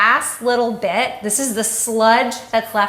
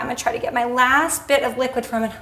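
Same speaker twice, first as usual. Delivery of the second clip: straining while squeezing hard; shaking with effort; 4 semitones higher, faster than usual. Real, not acted. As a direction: voice strained by tired arms. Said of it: "My arms are literally shaking".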